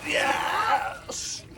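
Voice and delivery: breathy cheer of relief; triumphant yell. Real, not acted. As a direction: shout yes after the plunge. Finishes the ice bath.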